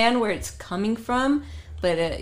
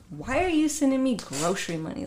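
higher-pitched, puzzled protest; mock indignant question; 5 semitones higher than usual. Girlfriend questioning boyfriend's grocery money, mildly mock indignant. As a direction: act out mild indignation at an offer. Acting her reply to unwanted money.

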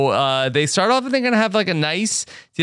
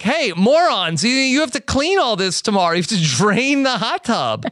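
quick, raised-pitch telling-off; mock exasperated scolding; 4 semitones higher than usual. Host scolding crew over the hot tub mess, mock exasperation. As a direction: lecture them in mock disbelief.

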